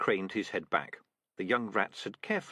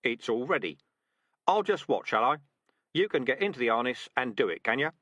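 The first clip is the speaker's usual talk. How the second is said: louder, teasing drill sergeant; mocking sergeant; 3 semitones higher, 4 dB louder than usual. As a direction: call the bluff with mock encouragement. Dark Tan pushing the recruit.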